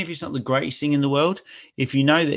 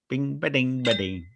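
coin chime sound; 4 dB quieter than usual. Pretend. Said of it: "Is that the new theme?".

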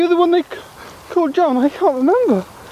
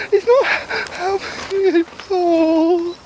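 breaking into tears; much slower than usual. Acted. Paul breaks down over memory.

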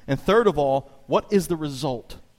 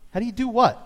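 puzzled; 9 semitones higher, 3 dB louder than usual. Retold or imitated. Retold puzzled reply at banquet hall.

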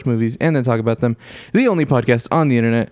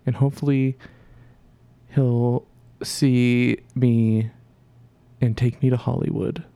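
Sid. Retold or imitated. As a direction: drag it out like a smitten co-host. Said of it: "thought that Sid was on the podcast".

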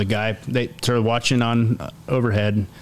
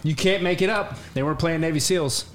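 high, giggly disbelief; real laughter while telling the host the punchline; laughing; 7 semitones higher than usual. Real, not acted. Laughing at own story.

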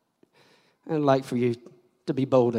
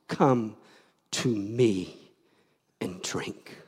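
soft call; 2 semitones lower, much slower than usual. Acted. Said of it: "God is screaming, shouting at you".

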